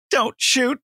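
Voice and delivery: high, feeble movie death plea; mock dying line. Actor mocking his own worst line in a high feeble voice. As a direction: squeak it out like a bad B-movie death. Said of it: "that was so fucking bad".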